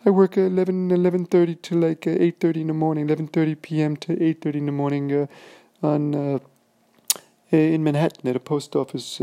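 squeaky, very high and loud man's voice; very high-pitched voice. Retold or imitated. The big guy answering that he works at the post office, very high-pitched. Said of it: "in this very high-pitched voice".

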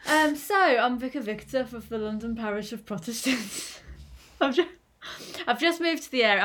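lightly put-on voice for Vicar Victor. Vicar introducing himself to the parish, put-on voice. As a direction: try out a character voice, slightly giggly. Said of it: "I'll go back to my own voice".

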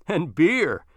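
chuckling through the words; laughing. A narrator's reading. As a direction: laugh it out, belly-jiggling. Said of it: "he laughed while rubbing".

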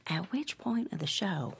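hushed, whispered aside; covered mic aside. Acted. Receptionist asking coworkers off-mic, hushed whisper. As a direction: drop to a secret whisper off the call. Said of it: "Grace covers the microphone of her headset".

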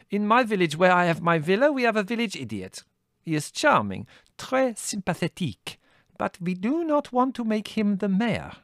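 put-on high, accented, dryly cutting; a foreign lady delivering a waspish jab; Lena, waspish. A narrator's reading. Lena's waspish remark.

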